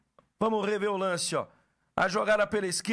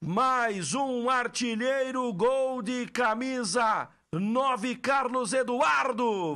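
slow proud announcement; much slower than usual. Real, not acted. Announcing scorer slowly.

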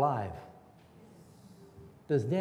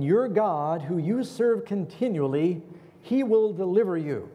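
louder, higher, slow declaration; louder king's assurance to Daniel; king's hopeful call; 3 semitones higher, 4 dB louder than usual. Acted. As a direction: call out the promise with conviction.

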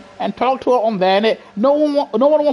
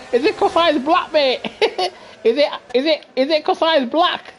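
quoting Lewis Hamilton; 4 semitones higher than usual. Retold or imitated. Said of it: "That's what Lewis Hamilton said".

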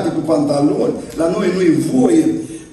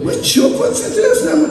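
laughing, much higher what happened to him; amused disbelief; 13 semitones higher than usual. Retold or imitated. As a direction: laugh it out in surprise. Congregation amazed at brother.

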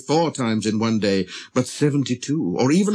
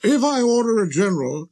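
high, pompous explaining voice; reasonable king; 10 semitones higher than usual. Acted. King giving an example of reasonable orders, high and pompous. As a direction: expound your authority as a monarch. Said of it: "he would say by way of example".

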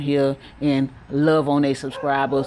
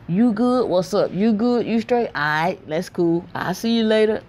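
higher-pitched quick mock family greetings; imitating family's casual check-in; 6 semitones higher than usual. Imitating family's brief small talk for viewers, casual and high. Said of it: "My family is like".

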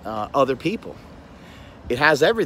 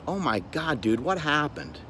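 soft, concerned reaction to a friend; sensitive concern; 5 dB quieter than usual. Acted. Guy hearing his friend's trouble, soft concern. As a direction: respond gently, with hushed concern. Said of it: "be more sensitive towards their needs".

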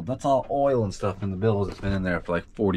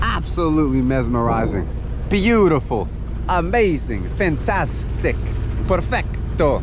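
gushing superlatives; 8 semitones higher than usual. Real, not acted. Sailor raving about the sunset view, high and gushing. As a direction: rave like a delighted chef. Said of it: "I went Italian on that one".

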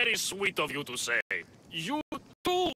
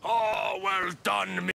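booming; much slower than usual. Acted. Booming blacksmith.

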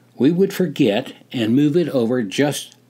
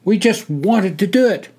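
at attention; 10 semitones higher, 4 dB louder than usual. Acted. Hawk answering officer.

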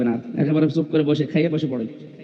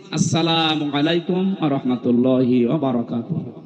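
full formal salam. Retold or imitated. Preacher retells Adam greeting the angels, full formal salam. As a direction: draw out each phrase of the salam. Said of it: "তিনি সালাম দিয়েছিলেন".

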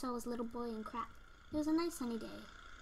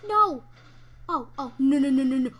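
panicked yelling; 2 semitones higher, 13 dB louder than usual. Real, not acted. Panicking as he dies.

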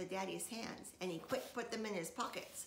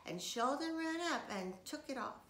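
ordinary delivery, nothing marked

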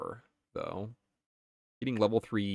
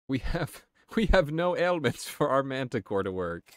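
mock pleading; 6 semitones higher, 6 dB louder than usual.

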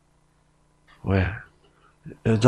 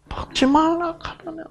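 Gyeongsang dialect serpent; 5 dB quieter than usual. Acted. Serpent questioning the woman, sly high Gyeongsang accent. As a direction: tempt slyly in a Gyeongsang accent. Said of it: "경상도 사투리로 제가 각색을 할게요".

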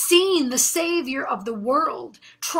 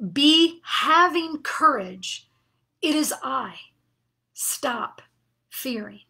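gentle authority; slower than usual. Retold or imitated. Jesus reassuring frightened disciples, slow and fading to a hush. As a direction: ease into the words, let the end fall to a hush. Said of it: "he says that with great authority".

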